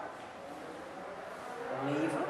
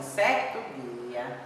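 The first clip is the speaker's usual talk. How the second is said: storybook opening; 4 semitones lower, much slower than usual. Shown as a demonstration. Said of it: "histórias que começam assim".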